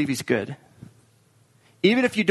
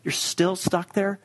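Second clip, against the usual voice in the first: impatient friends; 3 semitones higher, much slower than usual. Retold or imitated. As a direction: sigh it like a tired friend. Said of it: "they're like".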